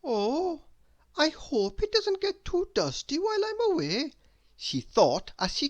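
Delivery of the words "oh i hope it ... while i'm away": fussy Miss Neat. A narrator's reading. Miss Neat leaving her cottage.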